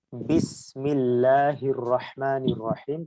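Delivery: বিসমিল্লাহির রহমানির রহিম drawn out, বা and মিম clear on the lips; slow recitation. Shown as a demonstration. Teacher recites for students, very slow and careful. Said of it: "আমরা যদি উচ্চারণ করি".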